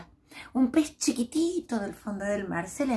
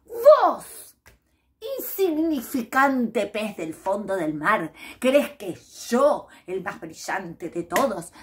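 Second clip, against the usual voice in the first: haughty scorn; 2 semitones higher, 4 dB louder than usual. Acted. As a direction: look down on the little fish and dismiss him. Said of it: "lo miró serio y le dijo".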